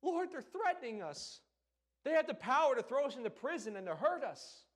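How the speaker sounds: hammed-up fearful cry to the Lord; panicked plea. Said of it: "They weren't coming to God like".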